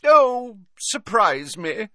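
high, loud, drawn-out jovial voice; airy Slughorn. A narrator's reading. Professor leaving it up to his pupil, airy. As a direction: wave the question away breezily. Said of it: "said Slughorn airily".

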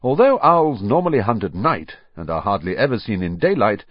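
crisp newsreader delivery; news anchor. Acted. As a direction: read it like an evening news report. Reads the TV news report.

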